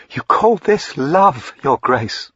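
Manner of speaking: high, loud, slow cry of scorn and misery; scornful, miserable cry. A narrator's reading. Diana cries out in scorn and misery at his grace. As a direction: fling the question back, wounded and scornful. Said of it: "she cried out between scorn and misery".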